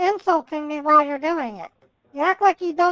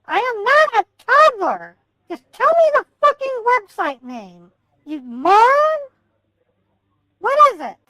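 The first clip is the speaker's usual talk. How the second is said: raised, angry and sharp; loud sharp voice; 3 semitones higher, 3 dB louder than usual. Real, not acted. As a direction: snap at him in anger. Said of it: "why are you yelling at me".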